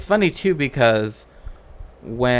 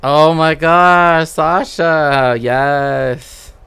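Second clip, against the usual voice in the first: 1 delighted; 4 semitones higher, 7 dB louder, much slower than usual. Real, not acted. Delighted reaction to funny trivia.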